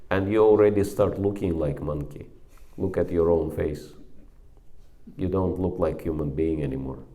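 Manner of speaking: mild retold anger; retold rebuke. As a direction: scold him, then settle. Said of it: "I became so upset".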